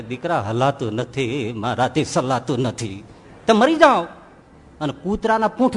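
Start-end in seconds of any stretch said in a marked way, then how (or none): 0.0-3.0 frail father's plea. Acted. Old father pleads with son. 3.5-4.0 loud, higher, cruel snap; a son loudly telling his father to die; harsh retort. Acted.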